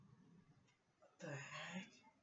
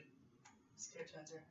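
slow whispered, frightened; scared whisper; 10 dB quieter, slower than usual. Real, not acted. Gamer at the cave mouth, whispering scared. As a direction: breathe it out, afraid to go in.

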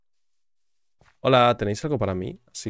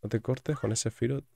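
usual speaking voice

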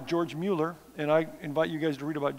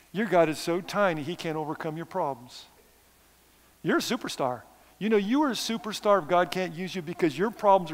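sarcastic. Pretend. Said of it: "'cause it's gonna sound sarcastic".

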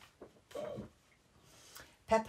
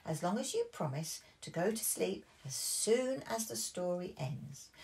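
higher coaxing granny; lightly voiced kind granny; gentle granny; 3 semitones higher, 4 dB louder than usual. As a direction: coax the little one into bed. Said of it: "said Granny Pig".

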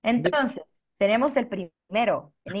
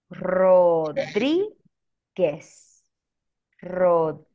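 "Rodríguez" slowly split, with DRÍ loud and held; teacher's syllable-by-syllable "Rodríguez", stressed on the í; 2 semitones lower, 5 dB louder, slower than usual. Shown as a demonstration. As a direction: stretch DRÍ in "Rodríguez" and pause before guez. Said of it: "And then intonation, it's here in letter E".

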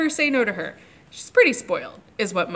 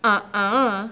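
put-on defiant little girl. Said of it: "said Lulu".

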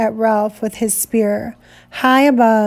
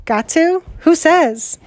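defiant; 6 semitones higher, slower than usual. Acted. Defiant retort.

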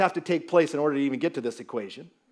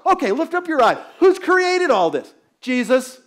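emphatic appeal; 8 semitones higher, 6 dB louder than usual. Real, not acted. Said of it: "preacher's emphatic call".

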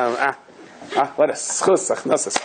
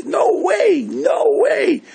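mocking shout; much slower than usual. Innkeeper refuses to pay.

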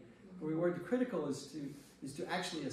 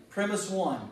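mock lawyer; 4 semitones higher, 6 dB louder than usual. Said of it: "when you say".

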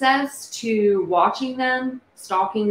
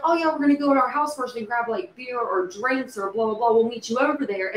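pitched-up, chatty mock reply; casual acted reply; 3 semitones higher than usual. Imagined girls answering an invitation to a party, pitched-up casual reply. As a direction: toss off an easy acceptance, higher voice.

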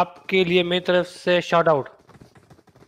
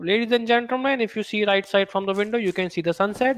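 foreign pilot announcement; 3 dB quieter, much slower than usual. Retold or imitated. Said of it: "उसकी हिंदी थोड़ी funny plus cute".

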